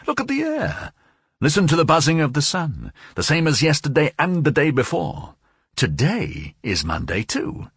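high-pitched, urgent manic voice; high, fretful fixation; obsessed man, insistent. A narrator's reading. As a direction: insist on it in agitation, leaping high at the end. Voices the obsessed José Arcadio.

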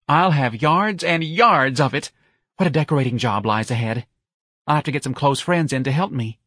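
high-voiced eager party planner; gushing young man. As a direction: revel in the decorating plans.

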